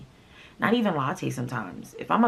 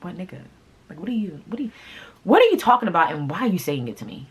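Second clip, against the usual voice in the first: high, loud disbelieving outburst; incredulous outburst; 5 semitones higher, 6 dB louder, faster than usual. Retold or imitated. To the jealous boyfriend, high incredulous outburst. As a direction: throw his accusation back at him. Retold angry reply to accusation.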